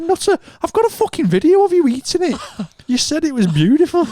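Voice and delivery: high, laughing comeback; laughing retort. Retold or imitated. Friend retelling laughing at his drunk mate, high laughing retort. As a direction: laugh it out at him. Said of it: "I said".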